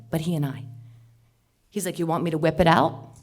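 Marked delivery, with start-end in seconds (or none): 2.0-3.1 a touch of a sleazy stranger, louder; lightly voiced creep repeating the come-on; creepy leering offer. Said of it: "I could say it again".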